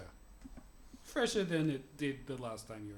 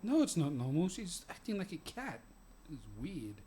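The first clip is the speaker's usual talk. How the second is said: defensive Victor; 3 semitones higher than usual. Acted. Game master voices Victor answering.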